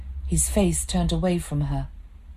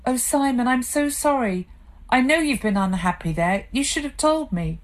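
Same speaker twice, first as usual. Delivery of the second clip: softened sympathy; 8 semitones higher than usual. Acted. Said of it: "Claire softened".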